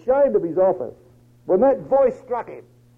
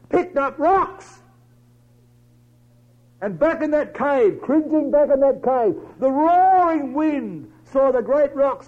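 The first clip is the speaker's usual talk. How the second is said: loud, raised storm-telling sermon voice; full-force preaching; 5 semitones higher, 5 dB louder than usual. Acted. Preacher telling brethren of wind in Elijah's cave, full-force preaching. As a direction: thunder out the roaring wind.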